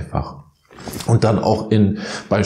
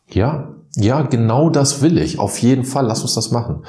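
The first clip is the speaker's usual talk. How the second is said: higher, eagerly agreeing yes-yes; eager agreement; 4 semitones higher than usual. Retold or imitated. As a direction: jump at the offer, all keen. Eager agreement, imagined inner voice. (begeistert zustimmend, höhere Stimme)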